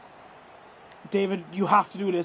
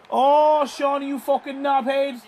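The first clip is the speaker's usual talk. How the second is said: angry outburst; 4 semitones higher, 3 dB louder than usual. Real, not acted. Teammate misses penalty.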